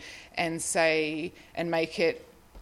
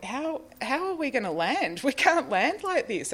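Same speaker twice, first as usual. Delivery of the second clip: panicked; 8 semitones higher than usual. Retold or imitated. Panicked quote as plane drops.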